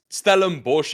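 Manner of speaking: Stellenbosch said the Afrikaans way; "Stellenbosch" with Afrikaans vowels; Afrikaans pronunciation. Shown as a demonstration. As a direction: say "Stellenbosch" as an Afrikaans speaker would. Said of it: "'Cause that, in Afrikaans, you say".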